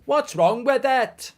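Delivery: high, loud and slow mock protest; exaggerated put-on indignation; hammed-up offended question; mock indignant. Mock Welsh defence.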